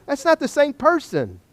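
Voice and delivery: high-pitched skeptical objection; mock skeptic. Skeptic looking at before-and-after ads, high disbelieving protest. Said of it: "I'm a skeptic".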